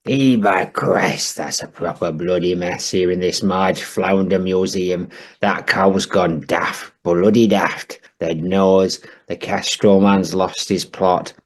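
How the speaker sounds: a crusty Yorkshire grump moaning; lightly voiced grumpy northern bloke; gruff northern old man. Stamp character rant.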